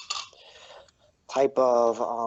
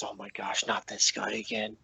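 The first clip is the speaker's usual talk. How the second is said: exasperated huff; 6 dB quieter than usual. Acted. Sin sees the bullywug running in, exasperated. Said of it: "he huffs and goes".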